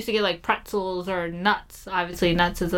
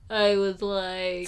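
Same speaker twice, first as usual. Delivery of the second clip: put-on drunk voice; 3 dB quieter, much slower than usual. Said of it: "that sounds like you're sleepy".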